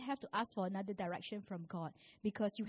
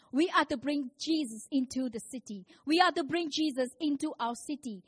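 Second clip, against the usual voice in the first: preaching build; 2 semitones higher, 5 dB louder than usual. Real, not acted. Preacher repeats, building louder.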